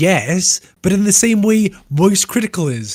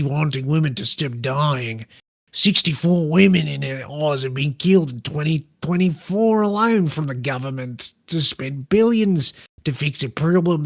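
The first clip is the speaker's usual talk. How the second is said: put-on Australian accent. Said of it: "Do it possibly in an Australian accent".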